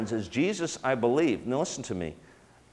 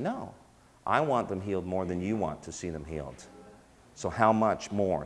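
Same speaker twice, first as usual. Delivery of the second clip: soft divine reply; 2 semitones lower, 4 dB quieter than usual. Retold or imitated. God's voice answering him.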